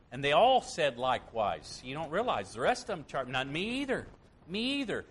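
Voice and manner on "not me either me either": mock boast. Disciples boasting in turn.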